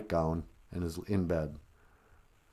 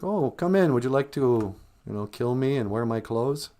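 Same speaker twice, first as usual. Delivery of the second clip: mock sweet grandma; 3 semitones higher than usual. Grandma invites wolf in.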